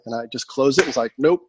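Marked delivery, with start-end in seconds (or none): 1.2-1.4 stern self-rebuke. Retold or imitated. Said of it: "you did that sound pretty damn good".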